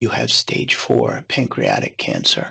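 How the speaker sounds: hushed near-whisper, barely above a whisper, very soft. Retelling how an oncologist gave the diagnosis: imitating a near-whisper. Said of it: "he said almost in a whisper".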